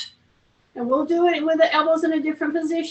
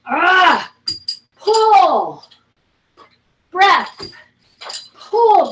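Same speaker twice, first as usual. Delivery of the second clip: loud rep cues; 3 semitones higher, 6 dB louder, much slower than usual. Shown as a demonstration. Instructor calling louder cues. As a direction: pull and breath called out louder. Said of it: "coaching reps".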